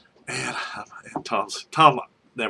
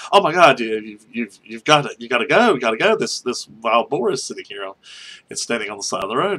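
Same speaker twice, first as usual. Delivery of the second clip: urgent retold alarm, louder at first; alarmed coworker; 4 dB louder than usual. Coworker warns the driver about a wild boar, alarmed. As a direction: mimic a panicky buddy urging him to go.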